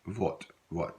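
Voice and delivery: "votre" cut short to "vot", no final R; Louisiana votre. Shown as a demonstration. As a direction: clip "votre" down to a crisp "vot". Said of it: "we pronounce it more votre".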